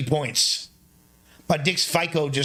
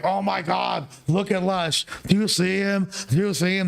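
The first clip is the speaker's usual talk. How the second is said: mock tipsy girl voice, much higher and sing-song; drunk girl voice; 6 semitones higher than usual. Mimicking the drunk girl FaceTiming his homies, high tipsy mock voice. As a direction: play up how she sounds when drunk, pitched way up. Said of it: "That's, like, how she talks when she's drunk".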